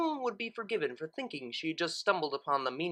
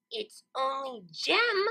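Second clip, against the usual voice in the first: reverent; 8 semitones higher, slower than usual. Acted. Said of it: "Lara said reverently".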